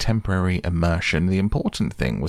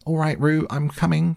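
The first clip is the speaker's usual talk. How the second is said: much higher urgent call; 10 semitones higher than usual. Acted. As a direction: shout you're coming. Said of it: "called Christopher Robin".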